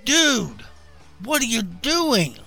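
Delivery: high, loud cry of disbelief; appalled high-pitched yell; horrified holler. A narrator's reading. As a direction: holler it in horror, pitch leaping up. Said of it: "recoiled in horror and hollered".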